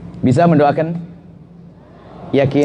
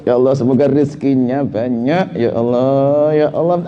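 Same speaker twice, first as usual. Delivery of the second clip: forced prayer through anger; 6 semitones lower than usual. Shown as a demonstration. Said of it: "Masih marah dia sebetulnya".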